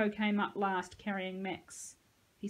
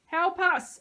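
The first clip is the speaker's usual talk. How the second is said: loud, high scream; screaming for help; 10 semitones higher, 9 dB louder than usual. A narrator's reading. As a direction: scream out to anyone who might hear. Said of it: "Sahalia started to scream".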